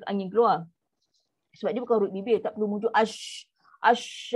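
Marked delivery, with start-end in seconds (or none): 2.9-4.3 "ash" with lips pushed too far out; overdone pursed ash. Shown as a demonstration. Teacher mocks the overdone "ash" as wrong. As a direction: overdo the lip rounding on "ash". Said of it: "tu salah lah. Tu over sangat".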